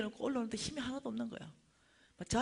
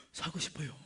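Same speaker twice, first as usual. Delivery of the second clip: put-on cowed drunk; 4 semitones lower, 5 dB quieter than usual. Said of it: "이러니까 얘가".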